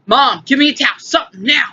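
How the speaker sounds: calling out. Retold or imitated. Calling out to mom for a towel.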